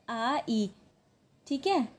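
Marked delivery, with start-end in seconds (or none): 0.1-0.7 आ ई as two separate vowels, ah then ee; Korean pronunciation. Shown as a demonstration. Teacher giving the Korean word for child, sounded out. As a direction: sound out "आ ई" one vowel at a time. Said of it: "child को कहते हैं Korean में".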